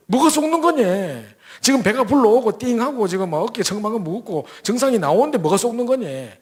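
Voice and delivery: exasperated protest. Retold or imitated. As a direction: fling his words back at him in frustration.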